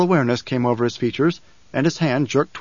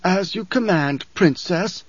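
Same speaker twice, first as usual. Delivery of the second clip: insolent tone; 5 semitones higher, slower than usual. Acted. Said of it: "Don't use that tone with me".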